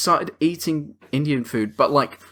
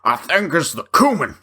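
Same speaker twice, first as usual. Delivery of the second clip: Southern voice; 2 semitones higher than usual. Retold or imitated. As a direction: imitate a Southern accent. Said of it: "says it in a southern voice".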